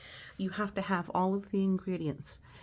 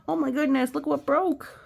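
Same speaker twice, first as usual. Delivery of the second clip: higher and louder exclamation; shocked; 9 semitones higher, 7 dB louder than usual. Real, not acted. Teacher showing the picture, loud and shocked. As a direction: gasp it out in shock. Sees broken measuring cup.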